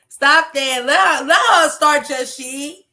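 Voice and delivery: mock-scold the commenter; playful outcry. Real, not acted. Reacting to a viewer's comment, loud playful protest.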